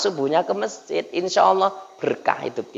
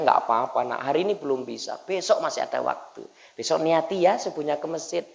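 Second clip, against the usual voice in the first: soft, lower-pitched gentle reassurance; not angry; 3 semitones lower, 8 dB quieter than usual. Acted. Teacher forgiving a pupil who overslept, not angry at all. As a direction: reassure the child quietly and patiently. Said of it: "Gurunya sikit pun nggak marah".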